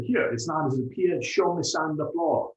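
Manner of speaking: calm teacher instructing the student; lightly voiced Mister Miyagi. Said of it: "And he said".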